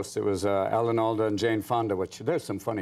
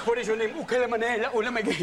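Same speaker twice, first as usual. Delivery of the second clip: mock tribal girl; 9 semitones higher than usual. Voicing New Guinea girl dialogue.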